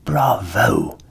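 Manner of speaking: the ass cheering, loud; bright bravo from the ass; admiring donkey. A narrator's reading. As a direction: applaud the cock's noise. Ass praises the cock.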